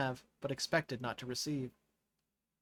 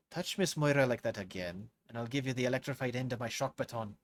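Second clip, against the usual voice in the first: menacing guard. Acted. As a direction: threaten her coldly. Security chief threatens Naira.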